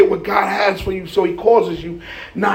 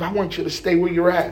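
devil; 5 semitones lower, 3 dB quieter than usual. Acted. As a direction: lower devil's voice, held back. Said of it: "That's how the devil do".

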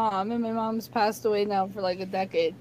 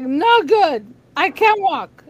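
put-on higher and louder, a dramatic complaining old man; whiny dad; 5 semitones higher, 7 dB louder, slower than usual. Daughter imitating her dad complaining he can't walk, hammed-up and whiny. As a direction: play the dad milking his pain.

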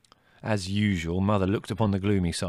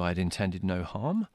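plain reading voice

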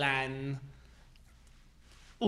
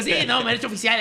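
words bubbling with laughter, louder; laughing through words; 6 semitones higher, 8 dB louder than usual. Retold or imitated. Retelling his merch pitch at parties, laughing. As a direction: laugh while insisting on it.

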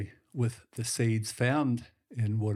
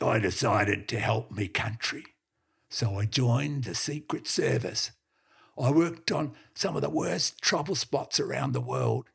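lightly gruff dog telling tales; a hint of an old yarn-spinning heeler; old blue heeler boasting to the businessman, mildly gruff; gruff talking dog; 3 dB louder than usual. The dog's long story voice.

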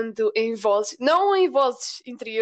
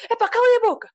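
sudden high shout, cutting someone off; 9 semitones higher, 4 dB louder, much faster than usual. Retold or imitated. A person breaking into an argument, shouting shut up. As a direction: bark it out to end the argument. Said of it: "chega lá alguma pessoa".

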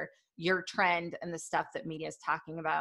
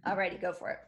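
just after a sip of tea; words right after a sip; while sipping a drink; 3 dB quieter, much faster than usual. Real, not acted. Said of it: "let me have a sip of my sleepy time tea here".

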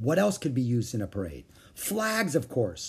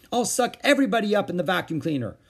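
fast, higher, louder playful threat; shouted; 8 semitones higher, 4 dB louder, faster than usual. A narrator's reading. Howie chasing everyone with the vacuum, shouting. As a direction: charge in gleefully. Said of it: "he shouted".

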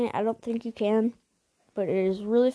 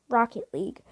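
whispered reveal. Acted. Dramatic reveal of next game.

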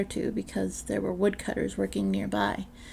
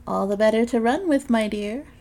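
sly wolf as granny; 2 semitones higher, 6 dB louder than usual. Acted. Wolf answers.

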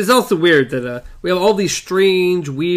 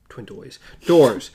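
echo; 6 semitones lower than usual. Acted. Echo effect on doors.

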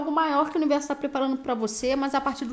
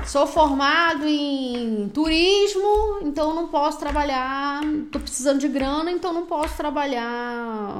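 mock excuse-making; 3 dB louder than usual. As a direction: stretch the words out like a lame excuse. Mocks excuses for not working.

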